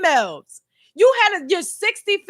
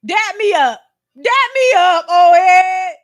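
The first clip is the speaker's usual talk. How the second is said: louder, hyped dap request; hyped greeting; 5 dB louder than usual. Retold or imitated. Vlogger imagining greeting the old man, hyped. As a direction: greet the old head with hype. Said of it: "I would be like".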